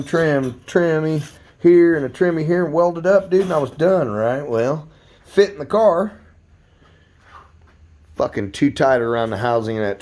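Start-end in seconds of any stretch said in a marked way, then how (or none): 0.0-6.2 exasperated rant. Real, not acted. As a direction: rattle it off, fed up. Venting about botched fit.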